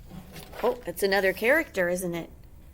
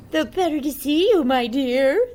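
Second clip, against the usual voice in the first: loud, higher hammed-up wolf; menacing wolf; 6 semitones higher, 11 dB louder than usual. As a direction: purr it as the disguised wolf. The wolf speaks.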